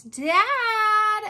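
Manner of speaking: put-on girl yelling for her father. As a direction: shout for him across the house. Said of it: "Abby yelled".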